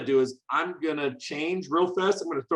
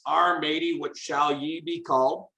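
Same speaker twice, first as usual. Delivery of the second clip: lightly voiced pirate; a hint of pirate in the question. Teacher reading the program's question aloud, light pirate voice. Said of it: "it starts off in our pirate voice".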